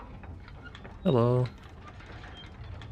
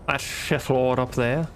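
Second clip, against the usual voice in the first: mock announcement; 3 semitones higher than usual. Repeats the name, drawn out.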